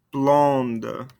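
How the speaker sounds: "Blonde" closed with an audible N and D; sounded ending consonants. Shown as a demonstration. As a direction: let the D of "Blonde" be heard. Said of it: "makes us pronounce those ending consonants".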